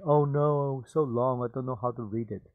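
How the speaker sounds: mock worried. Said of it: "you worry".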